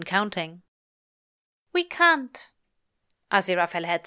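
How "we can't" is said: high, strained refusal; pained refusal. Acted. Angel refusing Crowley at the door, high and strained. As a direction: refuse him with a catch in the voice.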